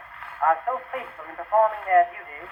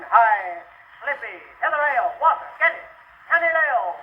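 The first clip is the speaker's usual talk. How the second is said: calling out; 4 semitones higher than usual. Acted. Soldiers calling for water.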